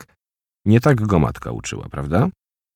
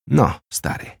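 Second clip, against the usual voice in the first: higher, smiling bitter voice; bitter smile; 8 semitones higher than usual. Acted. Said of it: "uśmiechnął się z goryczą".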